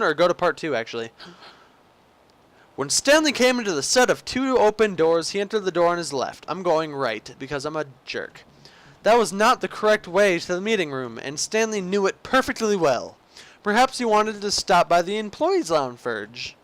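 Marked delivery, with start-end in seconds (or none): 2.8-6.4 measured storybook narrator delivery; game story narration. Acted. Player narrating Stanley's missing coworkers, theatrical storyteller. 9.0-16.6 measured storybook narrator delivery; game story narration. Acted. Player narrating Stanley's missing coworkers, theatrical storyteller.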